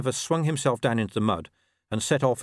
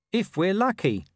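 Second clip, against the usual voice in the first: mumbled; 9 semitones higher than usual. A narrator's reading. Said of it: "he mumbled".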